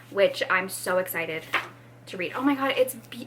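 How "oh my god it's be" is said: breaking off into a whisper; awed whisper. Real, not acted. Reader overcome by the book's looks, awed whisper. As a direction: gasp it out under your breath. Admires book, too moved to finish.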